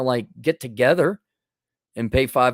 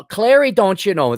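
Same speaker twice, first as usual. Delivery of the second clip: raised, lilting Minnesota accent; 3 semitones higher, 5 dB louder than usual. Shown as a demonstration. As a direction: open with a put-on Minnesota "don't you know". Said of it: "This is the Minnesota accent".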